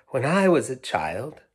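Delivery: lightly voiced old woman; a hint of a frail grandmother. Old woman telling the children, lightly voiced.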